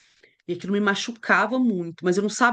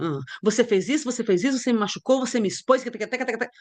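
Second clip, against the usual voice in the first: mock quarrel; faster than usual. Shown as a demonstration. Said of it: "Eu estou brigando".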